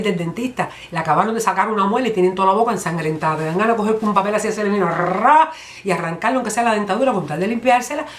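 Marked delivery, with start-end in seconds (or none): 4.9-5.5 drawn-out rolled "rra"; imitated ripping noise. Comedian miming tearing off stained teeth, imitated ripping noise. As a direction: rip it away with a long rising "ra". Mimes yanking something off with paper.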